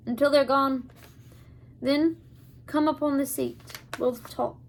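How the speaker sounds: put-on a light, amateur Scottish accent for the old man; old Abner steadies the hidden children in a mild Scottish accent. Abner, lightly Scottish, tells them to stay in the wagon. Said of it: "not very fluent in Scottish accents".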